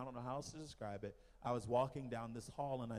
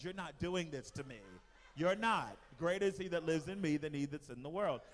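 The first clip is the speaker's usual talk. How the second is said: louder, higher words of defiance; firm retold rebuke; 4 semitones higher, 4 dB louder than usual. Preacher retells rebuking an evil spirit, firm and rising. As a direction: stand your ground, voice lifting as it goes.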